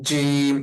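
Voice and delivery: জিম said firmly and held; hard, deliberate জিম; firm articulation. Shown as a demonstration. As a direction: press the tongue to the palate for a strong জিম. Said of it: "এভাবে জিমটাকে শক্ত করে".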